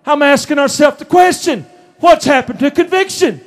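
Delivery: preacher calling out to the church; preaching shout. Real, not acted. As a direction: drive the question home to the congregation. Preacher builds to his point.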